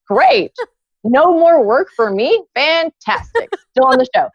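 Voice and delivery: high, singled-out cheers of relief; hammed-up glee, pitched well up; mock delight. Fired employee still on the show, mock-delighted.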